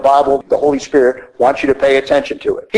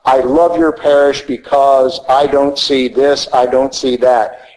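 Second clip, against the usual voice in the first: slow, lightly voiced visitor quoting praise; a light imitation of an admiring visitor; visitor's praise; slower than usual. Priest quoting a visitor who loves the parish, lightly voiced and slow. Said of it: "visitors come up to me and go".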